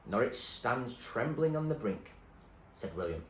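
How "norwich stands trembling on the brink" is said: put-on old man voice. William's riddle.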